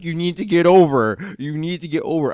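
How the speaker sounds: half-hearted scream at another driver; mild mock scream. Driver retells yelling at a truck blocking him, mild mock scream. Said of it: "I'm, like, screaming".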